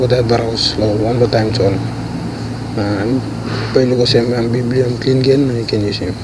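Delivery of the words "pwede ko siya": normal talking voice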